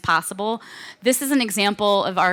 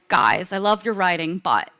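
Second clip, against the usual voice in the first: badly faked British accent; horrible British accent. UK country manager to the American writers, in a bad British accent. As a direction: have a bad go at British English. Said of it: "I'm doing a horrible accent".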